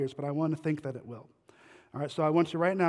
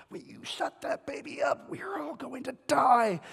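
Hawkeye's frantic hiss; 9 semitones higher than usual. Retold or imitated. Hawkeye hissing at the mother to silence the baby. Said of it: "Hawkeye, he says".

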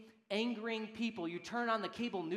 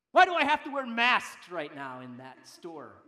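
loud mock indignant complaint; angry grumbling; 3 semitones lower, 10 dB louder than usual. Preacher acting a shopper griping about masks, loud grumbling. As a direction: burst out loudly, then tail off.

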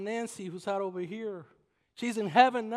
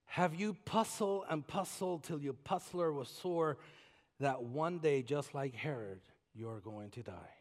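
hushed grave; 5 semitones lower, 5 dB quieter than usual. Acted. Grave low question.

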